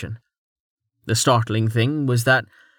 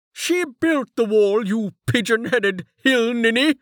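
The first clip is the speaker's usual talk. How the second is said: much higher furious mayor shout; shouted back; 12 semitones higher than usual. A narrator's reading. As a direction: fling the insult back at him. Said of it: "the mayor shouted back".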